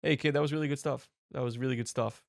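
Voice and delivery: calm, understated movie star praise; lightly voiced calm actor praising a newcomer; loose, half-hearted celebrity impression; Robert Downey Junior. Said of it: "R D J walks in there calmly".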